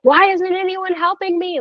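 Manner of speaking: half-performed cry for help; retold yell. Mother in labour calling out, mock yell. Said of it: "I'm like, yelling".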